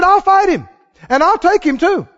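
high, loud, bold reply; bold insistence. Acted. Preacher as David insisting he'll fight, high and loud. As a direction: insist you'll fight him.

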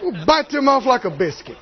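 usual speaking voice

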